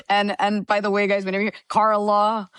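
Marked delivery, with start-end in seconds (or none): 1.7-2.5 lightly mimicked drawn-out "Carla"; imitating co-host. Guest showing how she hears her name, imitating co-host. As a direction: say "Carla" as the co-host would, stretching both halves. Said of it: "That's how I hear my name when he says it".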